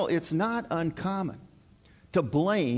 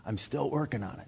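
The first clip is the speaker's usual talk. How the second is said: wry wife's reply; 3 semitones lower, 6 dB quieter, faster than usual. Retold or imitated. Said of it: "here's what they're gonna tell you".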